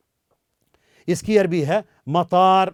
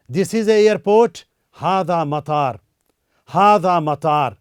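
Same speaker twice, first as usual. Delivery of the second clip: very slow, louder, each word spaced; slow drill; 3 dB louder, slower than usual. Shown as a demonstration. Teacher drilling the English sentence slowly. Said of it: "आप मेरे साथ कहते रहें".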